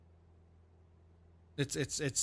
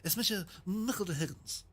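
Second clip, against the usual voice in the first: Michael D Higgins; 3 semitones higher than usual. Retold or imitated. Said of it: "Kevin Byrne says".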